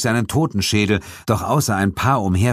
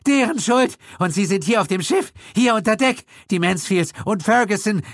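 high, desperate pleading; desperate accomplice pointing at others; 13 semitones higher than usual. A narrator's reading. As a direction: shift the blame in a frantic rush. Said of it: "rief Gildritch verzweifelt".

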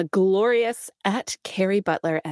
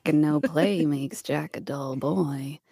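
Jack Nicholson quote; 4 semitones lower, slower than usual. Acted. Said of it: "read it as Jack Nicholson".

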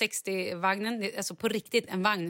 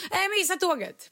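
much higher, panicked wail; panikslagen Charlie; 10 semitones higher than usual. Retold or imitated. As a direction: cry it out like a child in panic. (Charlie gnäller i panik om tåget)

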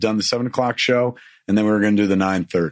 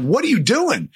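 much higher, alarmed squeak of a question; shocked protest; 14 semitones higher than usual. Retold or imitated. Protesting medic lifting shirt.

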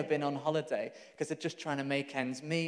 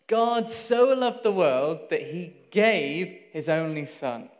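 slow, louder, every word weighed: "God so loved the world"; slow reverent reading; 6 dB louder, slower than usual. Shown as a demonstration. Preacher reciting John 3:16 to the congregation, slow and weighty. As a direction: lay out the verse slowly, word by word. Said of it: "That's John three sixteen".

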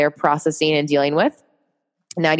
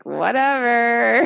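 laughing whatever; 6 semitones higher, much slower than usual. Real, not acted. Dismissing trolls with laugh.

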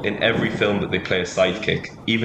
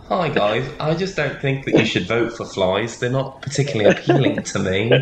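Elliot impression; 4 semitones higher than usual. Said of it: "what the character I envisage for Elliot is".

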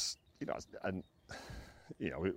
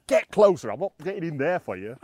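mock yell; 6 semitones higher, 10 dB louder than usual. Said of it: "I was like".

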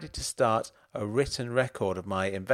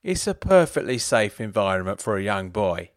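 put-on drunk voice; 5 dB louder than usual. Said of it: "still in his drunk voice".

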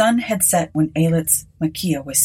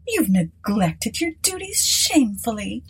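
much higher, mock scolding; teasing hostess; 4 semitones higher than usual. Mrs Sinclair teasing the district officer, high mock scolding. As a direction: tease him lightly.

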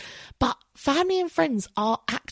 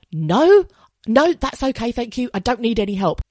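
high, louder mock-proud "no, no"; stubborn refusal; 5 semitones higher, 5 dB louder than usual. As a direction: brush off the offer, too proud to accept. Refusing stranger's help, acted.

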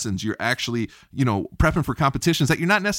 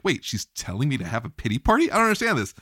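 thrown off; faster than usual. Retold or imitated. Survivor recalling being told to have a pity party, thrown off. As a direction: replay being baffled, pitch climbing at the end. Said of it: "I was really thrown off".

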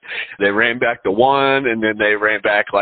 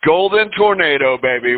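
hype call; 6 semitones higher than usual. Real, not acted. Hype call of team nickname.

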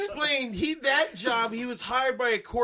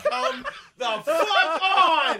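slow, louder, laughing protest; exasperated outburst; 5 semitones higher, 3 dB louder, much slower than usual. Retold or imitated. Hosts groaning at the plot, slow and laughing. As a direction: drag it out in disbelief. Reacting to the movie.

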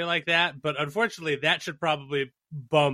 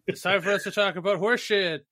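town crier; 6 semitones higher than usual. Acted. Crier proclamation continues, laughing.

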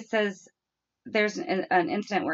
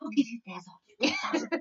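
a hint of a child coaxing, higher; 4 semitones higher, 4 dB quieter than usual. A light touch of sister bargaining with crying sibling, coaxing. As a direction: bargain sweetly with a little sister. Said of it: "I hear Brooklyn going".

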